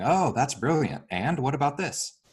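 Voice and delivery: acknowledging praise. Shown as a demonstration. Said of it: "giving them a little acknowledgement".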